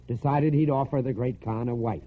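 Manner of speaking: usual speaking voice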